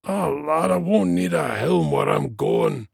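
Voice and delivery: put-on high, resigned old dwarf voice; dying dwarf. A narrator's reading. Dwarf to friend about his death, resigned dying voice.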